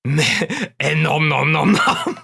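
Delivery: imitating nom noms. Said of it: "It was when Dave went".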